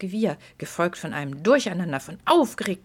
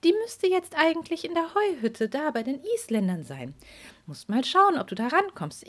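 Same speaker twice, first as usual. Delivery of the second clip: fairy voice; 4 semitones higher than usual. Acted. Fairy speaks to Petra.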